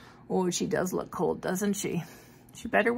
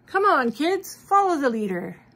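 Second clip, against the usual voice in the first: cheerful shout; 5 semitones higher, 4 dB louder than usual. Acted. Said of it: "shouted Frosty".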